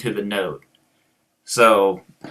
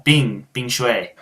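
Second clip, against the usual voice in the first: slow Chinese words in an American accent; slower than usual. Shown as a demonstration. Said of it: "I have just such an American accent".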